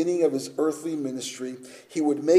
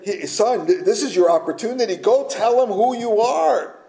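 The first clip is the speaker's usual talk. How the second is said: mother urging; 6 semitones higher, 4 dB louder than usual. Acted. Mary urging Jesus, acted quote.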